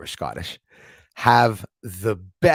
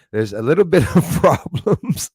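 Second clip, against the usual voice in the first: put-on half-laughed Indian accent, louder; laughing Indian accent; 6 semitones higher, 6 dB louder than usual. Host repeating the line in a laughing Indian accent. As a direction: slip back into the Indian accent while laughing. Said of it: "I won't do it".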